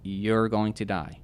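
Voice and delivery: drawn-out, evenly pitched pronouncement; slow retold thought. Man retelling the thought that hit him, slow pronouncement. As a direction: spell out the verdict slowly. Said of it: "we have this thought that".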